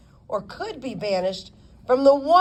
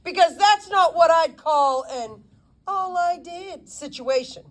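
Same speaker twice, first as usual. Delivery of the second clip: a hint of a scolding lawyer; lightly voiced lawyer lecturing the girl; stern attorney; 8 semitones higher than usual. A hint of the attorney scolding his young client.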